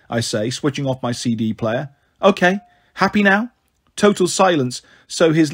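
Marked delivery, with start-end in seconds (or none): 2.2-3.5 sarcastic. A narrator's reading. Sulky teen switching off music.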